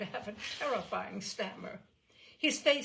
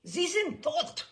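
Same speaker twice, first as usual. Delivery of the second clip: slow, loud, higher call; crying out; 10 semitones higher, 7 dB louder, slower than usual. A narrator's reading. Narrator calls out to the general in German, loud and slow. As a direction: ring it out slowly. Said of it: "I cried".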